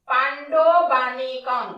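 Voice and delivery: পাণ্ডবানীকং said slowly syllable by syllable; teacher sounding out পাণ্ডবানীকং; careful pronunciation. Shown as a demonstration. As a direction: stretch out পাণ্ডবানীকং evenly. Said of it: "তু".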